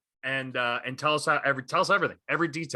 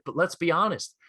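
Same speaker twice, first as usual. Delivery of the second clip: higher, measured praise in his voice; a rapper being rational; 5 semitones higher than usual. Retold or imitated. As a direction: concede the point calmly, pitched up. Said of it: "He's like".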